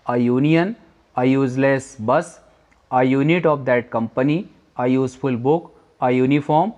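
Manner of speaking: very slow, word by word examples; slow dictation. Shown as a demonstration. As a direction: spell out each phrase slowly for the class. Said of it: "आ का प्रयोग करना पड़ेगा।". (धीमे-धीमे उदाहरण पढ़ना)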